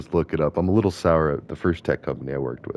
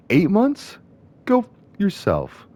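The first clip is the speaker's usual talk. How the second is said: much higher, indignant cry of eight months; outraged disbelief; 14 semitones higher, slower than usual. Real, not acted. Ranting to viewers about the severance, high outraged disbelief. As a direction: explode in offended disbelief.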